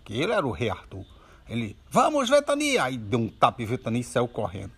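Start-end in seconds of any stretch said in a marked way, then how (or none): 1.9-2.8 high, bright call to charge; rallying cry. Acted. Boy urging his pretend horse to gallop, high excited call. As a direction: spur the horse on, high and eager.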